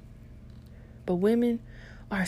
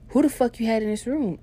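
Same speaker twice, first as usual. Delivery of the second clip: imitated jealous girlfriend, pitched up and louder; mock accusing outburst, higher than usual; going off; 5 semitones higher, 4 dB louder than usual. Girlfriend grilling her about the bra, going off. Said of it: "she just kept going off".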